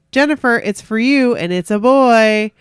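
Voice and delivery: dad calling out. Retold or imitated. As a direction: call her name up the stairs like dad. Dad calling her to the phone.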